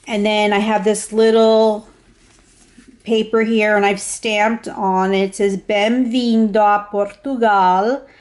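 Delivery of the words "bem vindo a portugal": learner's careful Portuguese accent; non-native Portuguese accent. Real, not acted. Traveler showing a stamped Portuguese greeting, non-native Portuguese accent. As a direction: read the Portuguese phrase with a foreign learner's accent. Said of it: "you have to excuse my accent".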